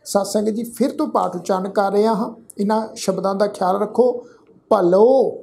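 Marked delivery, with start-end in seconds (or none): 4.7-5.3 ਭਲੋ said louder, the final ੋ drawn out as bhalo; careful pronunciation. Shown as a demonstration. Teacher corrects the sangat's ਭਲੋ, louder and careful. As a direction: stress ਭਲੋ and end it with a clear o. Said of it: "ਲੱਲੇ ਅੱਖਰ ਤੇ ਕਨੋੜੇ ਦੀ ਮਾਤਰਾ".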